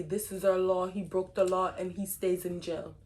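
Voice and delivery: a light mock Russian accent, barely shifted; understated Russian accent. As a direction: imitate a Russian official in a faint Russian accent. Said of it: "That's my best Russian accent".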